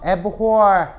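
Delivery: "abhor" said as e-bu-hor with a separate b; careful teacher's "abhor"; hard pronunciation shown. Shown as a demonstration. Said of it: "발음이 좀 어렵죠?".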